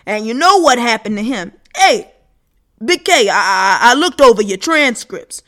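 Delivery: loud, pressing voices crowding in; pushy loud voices. Acted. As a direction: lean on him hard, loudly.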